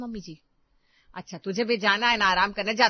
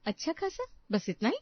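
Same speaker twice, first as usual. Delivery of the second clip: indignant disbelief; 4 semitones higher, 4 dB quieter than usual. Acted. Elder daughter-in-law echoing her mother-in-law's words, incredulous. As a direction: pitch jumps way up on खासा, sharp incredulous question.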